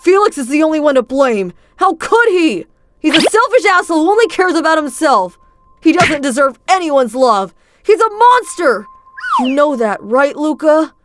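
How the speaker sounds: high, loud, bitter outburst; furious rant. Acted. Adrian rages about Felix to Luca, loud and high. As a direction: spit out the blame.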